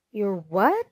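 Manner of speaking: mild shout, sharply rising question; understated narrated shout. A narrator's reading. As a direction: ask it incredulously, swooping up. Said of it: "Gussie shouted".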